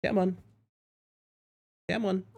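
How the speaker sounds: coaxing a pet. Real, not acted. Coaxing cat.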